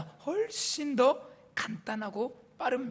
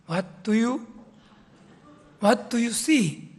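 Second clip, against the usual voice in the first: 1 buitenlands Engels; 3 semitones higher, much slower than usual. Retold or imitated. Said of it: "이 외국인이".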